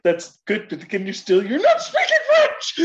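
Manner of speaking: rising into a laughing exasperated teacher voice; mock-frustrated French tutor, cracking up; a touch of Phoebe scolding Joey, laughing; quoting Phoebe. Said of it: "Like, like".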